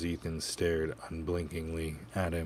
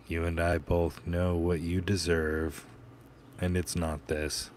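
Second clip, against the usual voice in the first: hissing; 5 dB louder than usual. Acted. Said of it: "Ethan hissed".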